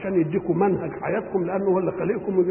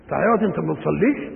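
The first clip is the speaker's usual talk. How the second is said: astonished reproach; faster than usual. Shown as a demonstration. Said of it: "أنك تعجبت من أنه لا يصلي".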